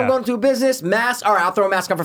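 mock lecturing. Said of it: "and I'm like".

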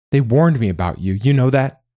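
heated, rising in pitch; angry accusation. Acted. Mother blaming the boy she was warned about, angry. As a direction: throw it in the child's face. Mother berating her son.

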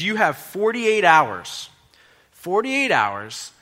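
loud, very slow, drawn-out demand; acted boss's warning, high and emphatic; stern ultimatum. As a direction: lay down a deadline like an angry boss. Boss gives manager an ultimatum.

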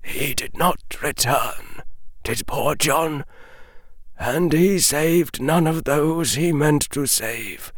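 put-on quiet, breaking old voice; voice cracking. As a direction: hold back tears as you speak. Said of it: "the old wizard's voice cracked".

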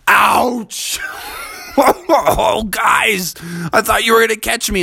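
lightly voiced bear, mild mock ouch; bear Bubby hurt. Bear whines to his friends after the fall, mild.

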